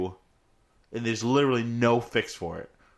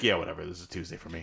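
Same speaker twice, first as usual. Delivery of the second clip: Rick voice; 8 semitones lower, 7 dB quieter, faster than usual. Retold or imitated. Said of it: "And Rick's like".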